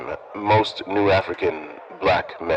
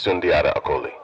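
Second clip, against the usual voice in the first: payphone call; 2 semitones lower, faster than usual. Real, not acted. Name spoken into prison collect call.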